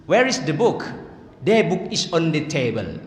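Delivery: English with a mock Pakantan regional accent; Pakantan-style English. Shown as a demonstration. Teacher imitates English Pakantan style, mock regional accent. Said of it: "itu bahasa Inggris gaya Pakantan tadi itu".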